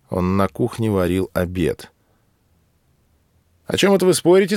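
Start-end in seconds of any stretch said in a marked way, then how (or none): 3.6-4.6 high and louder, lightly voiced; a bright raised question from the officer; Loris-Melikov asking. A narrator's reading. Loris-Melikov asks the murids what they're arguing about, in a high raised voice.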